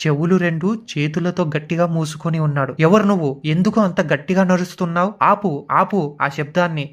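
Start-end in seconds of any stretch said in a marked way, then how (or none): 2.8-6.9 half-shouted plea to stop the noise; panicked shout. Acted. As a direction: feverish man begging the footsteps to stop. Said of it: "Veerababu అరిచాడు".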